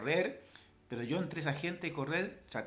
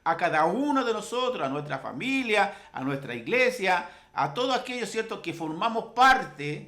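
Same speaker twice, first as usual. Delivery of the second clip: raised, insistent pulpit voice; emphatic preaching; 3 semitones higher, 4 dB louder than usual. Acted. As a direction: preach it, building in force and pitch.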